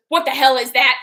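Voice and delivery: loud, sharp mock outrage; a grandma shocked at a new tattoo; grandma's outraged question. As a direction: imitate grandma snapping at the tattoo. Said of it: "She says it just like that".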